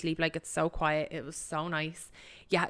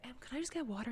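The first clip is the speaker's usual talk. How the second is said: hushed request; 6 semitones higher, 10 dB quieter, faster than usual. Retold or imitated. Asking flight attendant quietly at night.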